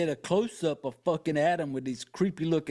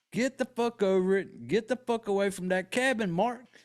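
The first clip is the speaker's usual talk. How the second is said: exasperated scolding, raised pitch; frustrated yelling; 4 semitones higher than usual. Pretend. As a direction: scold him like a fed-up friend. Yelling at character Mark.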